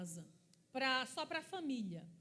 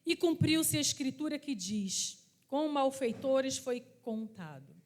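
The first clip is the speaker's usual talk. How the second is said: slow, louder Bible reading; slow, declaiming scripture reading; 2 semitones lower, 5 dB louder, slower than usual. Acted. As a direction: read the verse out to the congregation. Reads scripture aloud.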